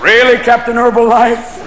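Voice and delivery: indignant. Acted. Acted indignant retort to stoner.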